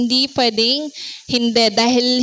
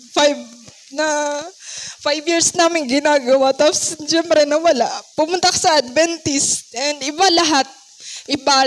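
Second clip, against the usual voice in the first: after crying; 2 semitones higher than usual. Real, not acted. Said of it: "sorry po, naiyak ako".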